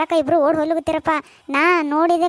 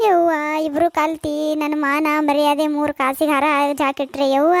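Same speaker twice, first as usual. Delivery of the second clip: slow, drawn-out cry of shame; keen theatrically over lost honour; wailing lament; slower than usual. Acted. Wronged wife bewails the two who eloped, wailing.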